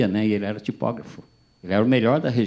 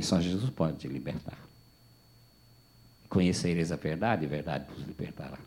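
softer, lower solemn verse; soft scripture; 5 semitones lower, 8 dB quieter than usual. Retold or imitated. Pastor quoting scripture to the man, soft solemn recitation. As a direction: recite it gently as a promise.

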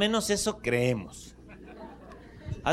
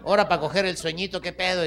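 grumpy sleeper; 3 semitones higher than usual. Acted.

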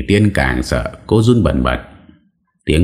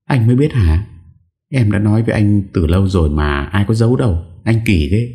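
put-on higher, reproachful young wife; sulky wife voice; 5 semitones higher than usual. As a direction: chide him playfully. Wife voiced sulking at husband. (giọng vợ trách yêu, cao giọng)

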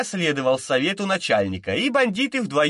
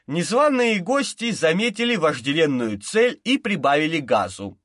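usual speaking voice

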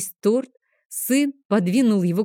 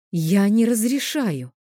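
curt refusal; 3 semitones higher, slower than usual. Acted. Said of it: "отрезала".

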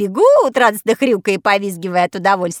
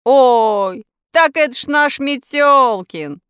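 обрадованно; 3 semitones higher, 5 dB louder, slower than usual. A narrator's reading. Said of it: "обрадовался Индюшкин".

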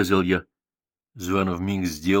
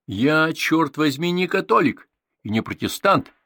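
higher, louder, building to a shout; worked-up outburst; 7 semitones higher, 5 dB louder than usual. A narrator's reading. Boy arguing about church, loud outburst. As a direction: get all riled up. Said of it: "расшумелся я".

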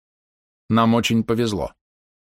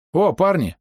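excited call; 9 semitones higher, slower than usual. Acted.

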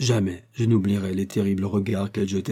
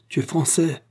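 hissed hatred; 7 semitones higher than usual. A narrator's reading. Manuela accuses the French soldier, hissing with hatred. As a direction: hiss it out, high, with hatred. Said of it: "Elle siffla ces trois mots avec un terrible accent de haine".

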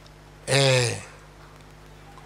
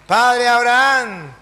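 drawn-out, raised call to Abraham; higher, imploring appeal to a father; pleading rich man; 4 semitones higher than usual. Acted. Dead rich man begs Father Abraham for his brothers, pleading. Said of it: "Rogando por los hermanos".

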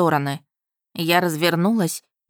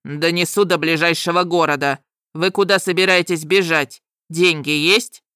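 dragon voice. A narrator's reading.

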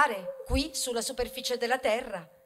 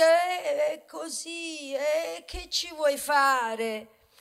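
resigned shrug; 2 semitones higher, much slower than usual. Retold or imitated. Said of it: "alzate le spalle e dite".

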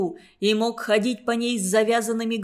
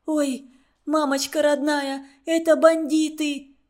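испуганно; 4 semitones higher than usual. Acted. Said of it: "дрожит от страха и шепчет".

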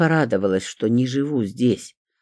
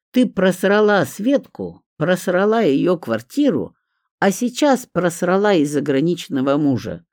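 higher, hammering reproach; accusing; 6 semitones higher, 4 dB louder than usual. A narrator's reading. Petrov berating Olga for her losses, accusing. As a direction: pile up the accusations one by one.

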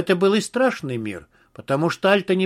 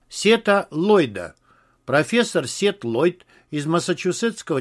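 parody news anchor. Acted. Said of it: "голосом диктора".

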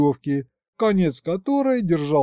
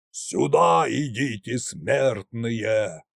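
loud but not ominous; 4 semitones lower, much slower than usual. A narrator's reading. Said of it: "раздался громкий, но совсем даже не зловещий голос".

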